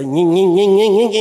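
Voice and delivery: mock whining. Mocking the complaining member.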